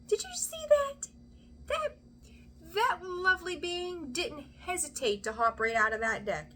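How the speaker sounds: very high, thrilled squeaky voice; amazed excitement. Real, not acted. Reader marvels at a card leaping from deck, amazed excitement.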